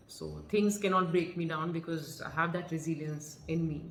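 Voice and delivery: calm, soft and assured; poised pageant answer. Shown as a demonstration. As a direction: answer like on stage, composed. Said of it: "if somebody asks me, I'll say".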